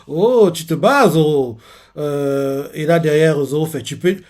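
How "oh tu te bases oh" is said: laughing tease. Retold or imitated. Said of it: "vu comment la personne rigole".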